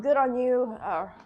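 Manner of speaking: usual speaking voice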